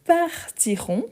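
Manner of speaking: teacher lands the answer on partirons, long and high; stressed answer. Shown as a demonstration. Teacher giving live-stream students the answer, partirons drawn out high.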